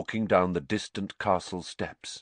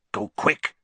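hoarse. A narrator's reading. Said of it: "he said hoarsely".

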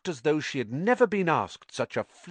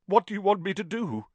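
weakly; 11 semitones higher, faster than usual. Acted. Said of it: "said Lockhart weakly".

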